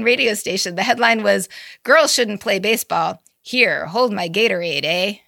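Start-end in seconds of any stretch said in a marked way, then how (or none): 1.8-5.1 put-on Canadian accent. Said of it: "Did I get the A accent all right?".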